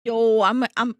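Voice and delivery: angry hiccup breaking in. Real, not acted. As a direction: hiccup mid-word. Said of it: "I'm angry hiccuping".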